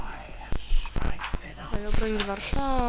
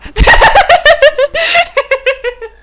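high loud laugh at the villain's gestures; real burst of laughter; 14 dB louder than usual. Real, not acted. Gamer cracking up at Voldemort's victory gestures, real laughing. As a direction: laugh out loud, can't help it. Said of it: "Sorry, się śmieję".

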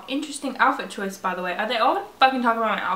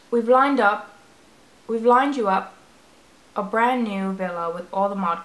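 loud, hammed-up British accent; 5 dB louder than usual. Gamer reading the villa text in a loud British accent. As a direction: read it in a mock British accent. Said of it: "I don't do a good British accent".

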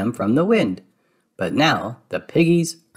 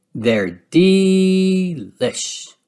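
Minnie voice; 7 semitones higher, much slower than usual. A narrator's reading. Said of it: "adds Minnie".

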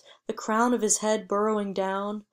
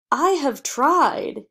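loud, higher and slow, each word pressed; angry father; 6 semitones higher, 7 dB louder, slower than usual. A narrator's reading. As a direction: hold back fury, then push it out. Father furious at ungrateful son.

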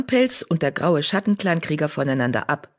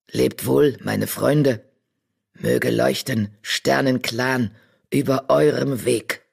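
slow, lower solemn badger voice with odd word order; wise old badger; 3 semitones lower, slower than usual. Old badger silencing Charlie with a stern word. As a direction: speak like an ancient oracle of the stars.

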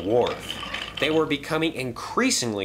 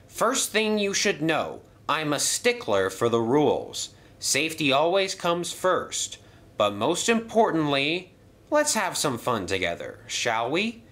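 apologetic, fussy, a bit breathless; flustered gentleman voice; 5 semitones higher than usual. Acted. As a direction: fluster through the excuses politely. Percival sets the rules.

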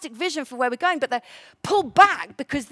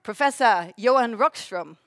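mock Swedish accent on the name; 4 dB louder than usual. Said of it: "practice my best Swedish accent".

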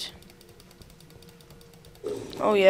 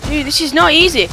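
higher-pitched exasperation; frustrated complaint; 6 semitones higher, 3 dB louder than usual. Real, not acted. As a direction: complain as the game gets too hard. Frustrated with the game.

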